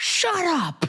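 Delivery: very high-pitched, cracking voice. Retelling a home run call: imitating Len Kasper's voice crack. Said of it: "Voice crack".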